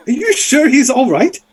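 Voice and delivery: very high parroting question; high-pitched talking bird; Kenku bird-creature. Acted. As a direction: squawk the question in a high mimic voice. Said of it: "The Kenku's like".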